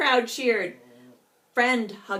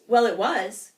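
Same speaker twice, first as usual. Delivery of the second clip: loud snippy retort; a prairie dog bickering over fuzz; 6 dB louder than usual. Acted. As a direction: shoot it back in the squabble. Prairie dogs quarrel.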